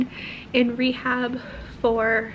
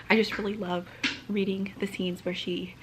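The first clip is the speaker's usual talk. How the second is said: whisper; 3 semitones lower, 5 dB quieter than usual. Real, not acted. Quiet aside about her sister.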